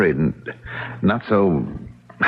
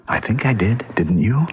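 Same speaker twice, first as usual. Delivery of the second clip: intimate whisper. Acted.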